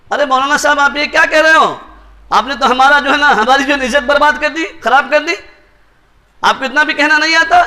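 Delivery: mock annoyed rebuke of the maulana; angry manager. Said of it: "اس کو غصہ آ گیا". (ناراض مینیجر کی ہلکی نقل)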